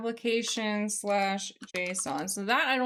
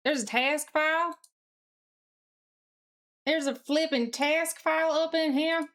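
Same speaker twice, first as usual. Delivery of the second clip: growing disbelief; 5 semitones higher than usual. Real, not acted. Discovers a hidden task file.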